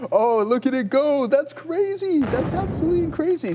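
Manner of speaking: high, thrilled disbelief; excited. Real, not acted. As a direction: shout it in amazement. Watching a stock spike.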